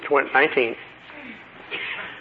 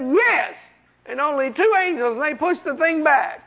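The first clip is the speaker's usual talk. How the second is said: a raised, pitiful demon voice; mock whiny demon; 10 semitones higher than usual. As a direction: play the beaten demon confessing. Preacher voices a frightened demon.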